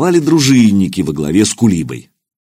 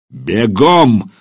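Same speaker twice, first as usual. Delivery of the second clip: fierce bark. Acted. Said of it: "страшным голосом рявкнул Кулиба".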